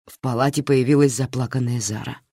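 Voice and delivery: plain reading voice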